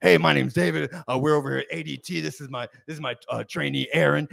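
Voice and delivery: loud opening, then quick patter; expressive salesman. Retold or imitated. Salesman introducing his trainee at the door, loud and expressive. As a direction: launch the introduction like an eager salesman. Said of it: "he's always talking like this".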